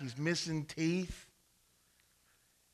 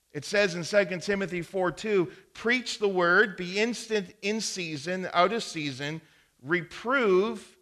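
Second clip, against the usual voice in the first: preaching; 3 semitones higher, 5 dB louder than usual. Acted. Pastor preaching to the congregation about correction, loud. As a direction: drive each truth home.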